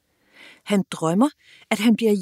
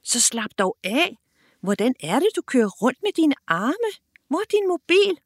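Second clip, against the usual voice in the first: rising higher into an exasperated shout; shouting impatiently; 5 semitones higher than usual. Acted. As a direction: yell at him to find the phone. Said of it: "råber Nadia igen". (utålmodigt råb)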